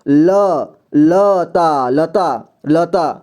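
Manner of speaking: लता said slowly with the full अ in ल; full vowel sound demo. Shown as a demonstration. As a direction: stretch लता to show the hidden अ. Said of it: "ल को पूरी तरह से उच्चारण कर रहे हैं". (लता में अ की आवाज़ खींचकर)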